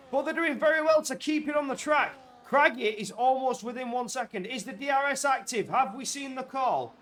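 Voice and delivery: sustained high-pitched race commentary; excited play-by-play. Real, not acted. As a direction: keep the urgency up through the call. Live commentary on tense chase.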